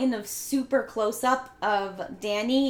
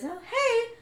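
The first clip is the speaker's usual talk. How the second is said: forced calm; 12 semitones higher than usual. Retold or imitated. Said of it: "She's trying to be really calm when she talks".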